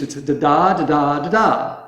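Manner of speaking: da-da with strong-weak beats; English da-da rhythm. Shown as a demonstration. Teacher shows the English stress rhythm. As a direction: tap out the English stress pattern. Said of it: "words pronounced like that".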